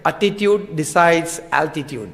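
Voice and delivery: slow and soft, each word weighed; slow, deliberate proverb. Shown as a demonstration. Quoting the proverb slowly to the congregation. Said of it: "અંગ્રેજીમાં એક કહેવત છે".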